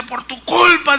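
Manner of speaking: high, mock-accusing blame; ironic. Pastor blaming Chuy for his provisions, ironic. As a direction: imitate an ironic caller driving the blame home. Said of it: "en tono irónico me dice".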